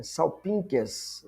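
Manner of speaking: "Salpinques" said slowly with a nasal "n" for the gamma; drawn out, careful "Salpinques". Shown as a demonstration. Teacher slowly modelling "Salpinques", gamma as N. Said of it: "esse gama aqui você lê como N".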